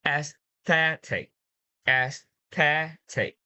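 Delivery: AESTHETIC stressed on THE, slowly; stress before IC. Shown as a demonstration. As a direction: model aesthetic with weight on the middle syllable. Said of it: "you need to put a stress before it".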